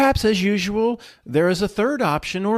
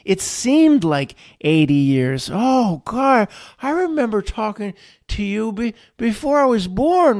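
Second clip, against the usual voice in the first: lightly voiced dazed old man; hint of an old man remembering; groggy old man; 4 semitones higher than usual. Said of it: "stop talking like you're an old man".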